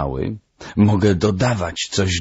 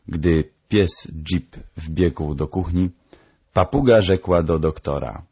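ordinary delivery

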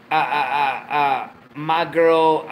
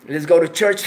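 holding back a laugh; 5 dB louder than usual. Shown as a demonstration. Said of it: "Let me try it again".

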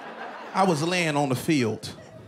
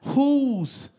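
shocked question; 3 semitones higher, much slower than usual. Retold or imitated. Player seeing the huge opponent, shocked high question. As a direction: gasp it out in disbelief. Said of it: "asking yourself questions like".

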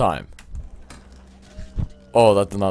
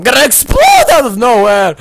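higher, louder mock outburst; hammed-up parental yell; exasperated rant; 14 semitones higher, 12 dB louder than usual. Ranting at the character.

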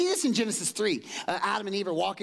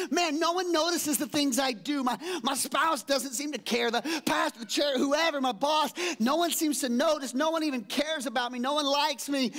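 self-pity; 7 semitones higher than usual. Retold or imitated. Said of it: "you're like".

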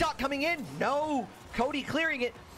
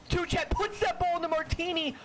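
excited shout; 7 semitones higher than usual. Real, not acted. Big save in live commentary.

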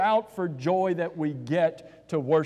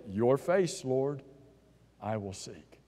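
much softer and lower, a devoted whisper-like prayer; hushed prayer; 5 semitones lower, 6 dB quieter, slower than usual. Acted. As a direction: breathe it to God, barely voiced. Heart answers God, devout prayer.

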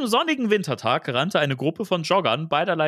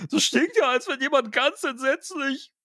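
high-pitched, appalled complaint; raised, dismayed character voice; groaning disgust; 11 semitones higher than usual. A narrator's reading. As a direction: voice a character recoiling from a stench. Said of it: "ächzte Louis".

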